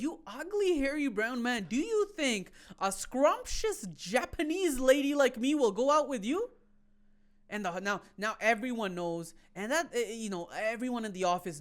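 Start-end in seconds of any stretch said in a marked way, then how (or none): 0.0-6.5 mock scornful lady. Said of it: "She goes".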